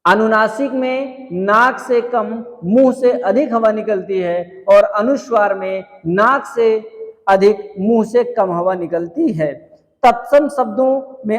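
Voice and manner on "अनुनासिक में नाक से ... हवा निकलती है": slow and deliberate, weighing each phrase; slow, careful explanation. Shown as a demonstration. Teacher asking students to listen closely, slowly. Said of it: "ध्यान से समझना".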